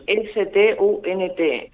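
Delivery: deletrea S T U N T letra por letra, muy despacio; S, T, U, N, T, cada letra separada y clara; deletreado lento. Shown as a demonstration. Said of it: "Y estos se llaman stunt". (deletreando la palabra despacio)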